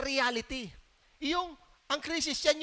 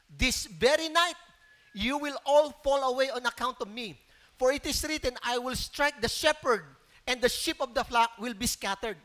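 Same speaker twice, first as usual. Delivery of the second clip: scripture reading. Acted. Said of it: "Jesus told them".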